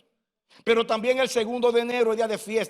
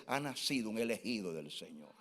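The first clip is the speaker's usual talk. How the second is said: much softer and lower, reverent; hushed angel voice; 11 semitones lower, 15 dB quieter than usual. Acted. Pastor voicing the angel at his birth, hushed and low. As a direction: breathe it like a heavenly announcement.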